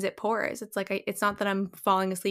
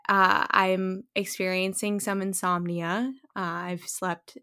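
listless. Real, not acted. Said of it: "if I sound very low energy".

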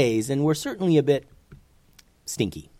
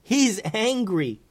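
high, slow, strained worry; a touch of panic, voice pitched up; a bit panicked; 11 semitones higher, slower than usual. A narrator's reading. Boy watching the dragon approach, mildly panicking. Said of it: "looking over his shoulder and panicking a bit".

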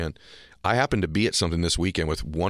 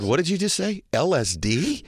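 high-pitched disbelieving double take; retold shock, pitch leaping on the question; incredulous; 9 semitones higher than usual. Host retelling his reaction to a runner's LSD confession, incredulous.

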